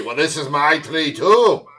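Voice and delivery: slow indignant comeback, rising on "too"; mock Scottish landowner. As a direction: draw out the rival claim, hammed-up. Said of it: "a guy in a skirt yelling at you".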